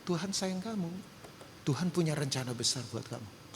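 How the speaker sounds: softly retold words of comfort; hushed, gentle quote of himself; gentle, slow-spoken reassurance. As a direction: say it softly, as to one person. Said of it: "Saya pelan-pelan, bayangin, saya bilang".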